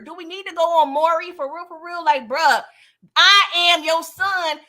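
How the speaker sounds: begging, rising loud pleading to be recognized; pleading son. Retold or imitated. Acted plea to father, begging.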